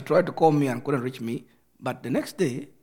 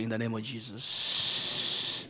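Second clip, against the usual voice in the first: congregation repeat; 7 semitones lower than usual. Shown as a demonstration. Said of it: "lift up your hands, say".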